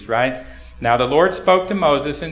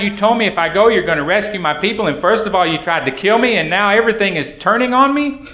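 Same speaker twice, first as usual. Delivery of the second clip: frustrated complaint; 5 semitones higher, 4 dB louder, faster than usual. Acted. Moses complaining to God voiced.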